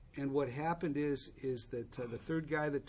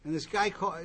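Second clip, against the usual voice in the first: ordinary talk, nothing marked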